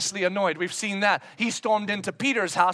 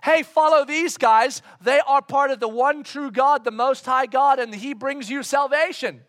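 preacher playing the shouting girl; mock shouting girl; 3 semitones higher, 4 dB louder than usual. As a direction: call it out like she chases them. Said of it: "this woman shouting".

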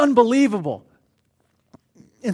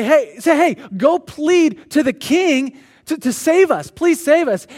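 pleading plea; 5 semitones higher, 4 dB louder, slower than usual. Acted. Mordecai voiced pleading to Esther.

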